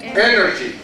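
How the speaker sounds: "Energy" stressed on its opening syllable, then falling; stress on first syllable. Shown as a demonstration. Teacher repeating it for students to copy, first-syllable stress on "Energy". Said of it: "Stress on the first syllable".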